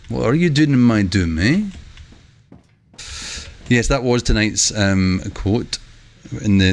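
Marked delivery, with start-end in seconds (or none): 0.1-1.6 lightly mock-Scottish, ending on a rising "eh?"; half fake Scottish accent. Streamer teasing viewers with a Shrek quote, half-fake Scottish accent. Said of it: "reading it in a kinda half fake Scottish accent".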